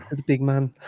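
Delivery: put-on jokey German-accented coaching call; mock German accent. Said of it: "in German accent".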